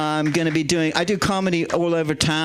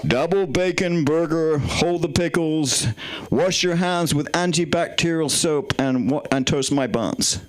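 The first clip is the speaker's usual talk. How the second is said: slow, deliberate American menu voice; American accent; slower than usual. Shown as a demonstration. Comedian ordering a burger for laughs, in an American accent. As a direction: draw the items out in an American accent. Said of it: "Can I do American menu with an American voice?".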